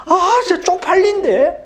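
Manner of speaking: high put-on voice of a sheepish friend; embarrassed friend. Friend whining that it is embarrassing, high embarrassed voice. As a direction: squeak it out like a shy teen.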